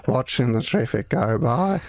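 put-on old country Australian. Shown as a demonstration. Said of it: "And I can do kind of".

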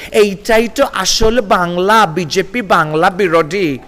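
slow, drawn-out mocking imitation of a simpering anglicised Bengali; mocking a simpering posh Bengali accent; mock affected accent. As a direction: parody a pretentious, coy way of speaking Bengali, slowly. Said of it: "ন্যাকা ন্যাকা accent দিয়ে".

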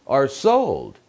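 "are sold" with the pitch lifted on "sold"; suspended, upward "are sold". Shown as a demonstration. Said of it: "인토네이션 올리고요".

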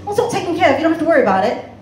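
put-on breezy British-accented brush-off. British debtor brushing off the collector, British accent. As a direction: reassure glibly in a British accent. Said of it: "he's got a British accent".

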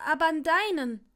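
high, loud, winded reply; breathless gasp. A narrator's reading. Longbottom telling Draco about the wand, breathless. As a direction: push it out high, short of breath. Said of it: "keuchte Longbottom atemlos".

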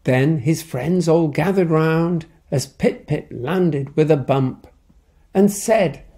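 lively picture-book reading; story narration. A narrator's reading. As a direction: tell it to a child at bedtime. Reads picture book aloud.

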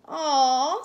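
fond, drawn-out aww; cooing. A narrator's reading. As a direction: coo over a tiny puppy. Mommy coos over the puppy.

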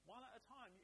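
loud high whoa, then a very slow slow down; calming a rush of excited voices; overwhelmed disciples. Acted. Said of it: "And these nine guys are going".

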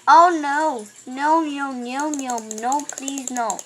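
mock panicked pleading. Pleading as enemy approaches in game.

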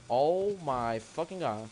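slow drawn-out groan of disbelief; exasperated. Real, not acted. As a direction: drag it out in disbelief. Exasperated at dynamite again.

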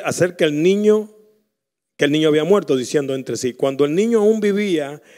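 loud preacher reading the Bible aloud; loud pulpit reading of scripture; forceful scripture reading. Acted. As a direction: read the verses out like a sermon.

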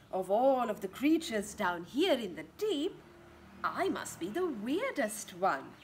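put-on playful squid rhyme for kids; lightly voiced giant squid. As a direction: marvel at your own weirdness. Squid speaks in book.

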